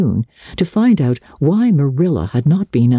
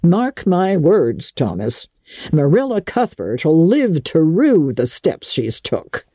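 mock warning; 3 semitones higher, slower than usual. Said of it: "I says to Thomas".

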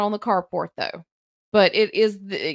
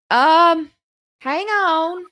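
put-on spry old voice; 8 semitones higher, 6 dB louder, much slower than usual. Old lady answers through door.

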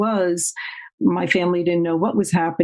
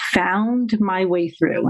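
"found" stretched and slowed; stress on found; slower than usual. Real, not acted. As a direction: lean slowly on "found". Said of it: "I emphasize the word found".

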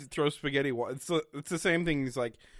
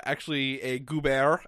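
put-on goober in a jokey French accent. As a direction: say goober the French way, tongue in cheek. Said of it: "just saying goober in a French accent".

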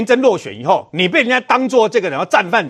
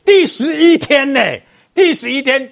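indignant shout; 3 semitones higher than usual. Real, not acted.

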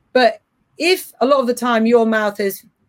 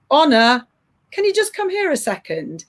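neutral calm call; 4 semitones higher than usual. Shown as a demonstration. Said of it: "I say it in a really neutral voice".

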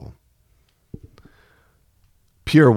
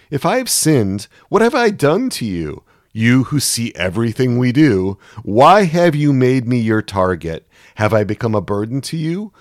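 higher, pained accusing questions; bitter, raised pleading; anguished challenge; 6 semitones higher, 3 dB louder than usual. Acted. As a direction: Job confronting God in protest. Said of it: "You can hear the anger behind".

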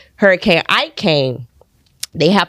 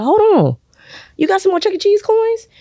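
excited. Retold or imitated. Excited discovery, high voice.

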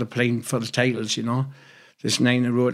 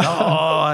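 drawn-out celebratory "oh"; playful mimed crowd-style "oh"; mock celebration cry; 4 semitones higher than usual. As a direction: imitate a goal celebration cry. Mimics goal celebration over a mop.

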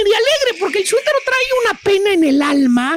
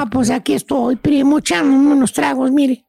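put-on downcast, lower-pitched drunk-buddy reply; sad; 5 semitones lower than usual. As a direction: play a mildly mopey man over drinks. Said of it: "y triste te dice".

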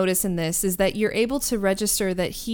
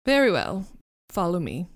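disdainful; 3 dB louder than usual. Acted. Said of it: "he sniffs in disdain".

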